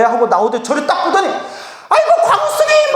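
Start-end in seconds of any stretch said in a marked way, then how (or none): 1.3-2.9 very high, squealed greeting; hammed-up fan surprise on spotting someone famous; delighted recognition. Staff member recognises the monk. (깜짝 놀라 반기는 높은 목소리)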